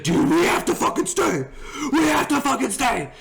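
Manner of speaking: high, urgent imitation of a pleading friend; retold excited insistence. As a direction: insist like an overexcited buddy.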